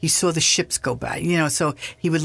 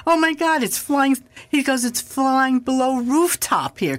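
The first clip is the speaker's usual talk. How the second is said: excited exclamation; 8 semitones higher than usual. Retold or imitated. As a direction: gasp it out in wonder. John seeing the UFO fly.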